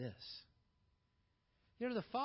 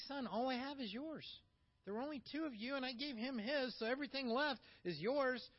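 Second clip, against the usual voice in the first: gentle father; 5 semitones higher than usual. Retold or imitated. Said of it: "He's like".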